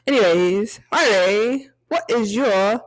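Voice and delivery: lightly faked British lilt; put-on British accent. Host asking co-host for her weekly song, mock British accent. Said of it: "I will talk British this entire".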